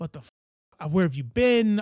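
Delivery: put-on furious, livid outburst, cut short. Retelling a daughter coming home at four in the morning: imitating a livid parent. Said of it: "and I am livid".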